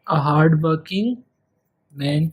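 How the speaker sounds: a hard working man dragged out slowly; slow model reading. Shown as a demonstration. Teacher comparing example phrases, slow clear reading. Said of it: "इससे compare करें".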